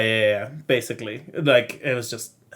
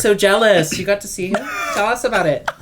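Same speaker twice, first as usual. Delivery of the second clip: high, gushing, fake jealous voice; mock eager excitement; 6 semitones higher than usual. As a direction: gush like an eager gossip. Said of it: "I'm like".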